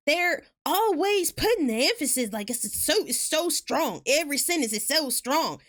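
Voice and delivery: overdone emphatic Southern imitation; hammed-up Southern, every syllable pushed; forceful fake Southern accent. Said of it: "when people imitate".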